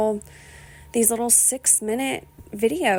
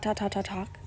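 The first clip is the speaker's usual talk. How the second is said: fading much softer, teasing herself; trailing self-mockery; 9 dB quieter than usual. Real, not acted. Joking about how much she talks, fading mock repeat. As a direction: let the repeats fade away. Mocking her own chattiness.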